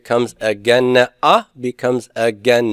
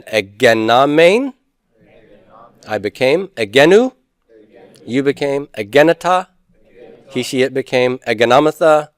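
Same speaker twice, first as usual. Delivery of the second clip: recitation drill. Shown as a demonstration. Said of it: "let's just say these for fun".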